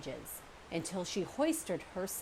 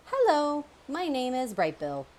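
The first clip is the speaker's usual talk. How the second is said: loud, high call over the water; shouting over waves; 7 semitones higher, 6 dB louder than usual. A narrator's reading. Gooseling calling to the otters across the waves, loud and high. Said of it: "he shouted over the waves".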